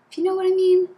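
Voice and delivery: suggestive tease. Real, not acted. Suggestive hint about the book.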